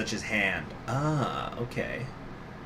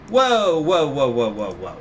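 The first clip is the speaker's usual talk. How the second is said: startled whoa; 5 dB louder, slower than usual. Real, not acted. Reacting to shocking info.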